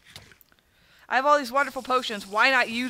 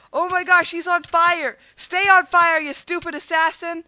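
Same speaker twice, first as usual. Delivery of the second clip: excited; 4 semitones higher, 3 dB louder than usual. Real, not acted. Gleeful at burning enemy.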